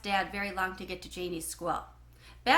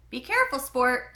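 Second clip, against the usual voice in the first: a lightly voiced dad cautioning; dad's warning; 2 semitones higher, 5 dB louder than usual. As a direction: call out a quick warning to your son. Dad warns after spilled drink.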